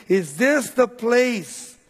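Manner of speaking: slow, drawn-out preacher's cry; stretched, very slow appeal. Retold or imitated. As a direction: imitate the psalmist calling out, word by word. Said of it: "As he's crying out, he's saying".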